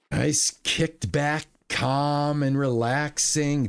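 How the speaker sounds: slow, laid-back and even; calm and relaxing. Shown as a demonstration. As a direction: keep it kicked back, slow and steady. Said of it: "Didn't want my voice to go up or down".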